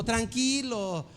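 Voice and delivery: long, drawn-out soothing word; acted slow reassurance; self-calming. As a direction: talk yourself down slowly, as an acted patient God. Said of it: "así ha de estar el Señor diciéndose a sí mismo".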